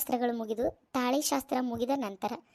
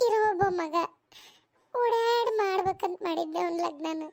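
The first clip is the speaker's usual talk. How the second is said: tearful; 4 semitones higher than usual. Acted. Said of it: "ಯಾಕ್ ಅಳಕತ್ತಿ ಬೇ?".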